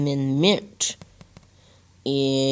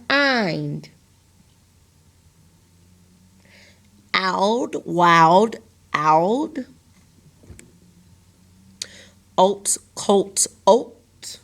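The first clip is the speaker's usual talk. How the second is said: sound drill; much slower than usual. Shown as a demonstration. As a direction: chant the sound, then the word, then the sound. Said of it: "closed syllable exceptions".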